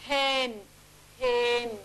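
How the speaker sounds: "Hen, hen." with the H breathed out long; prolonged H. Shown as a demonstration. Teacher modelling prolongables, H drawn out. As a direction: stretch the H of "Hen". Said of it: "We are just prolonging it".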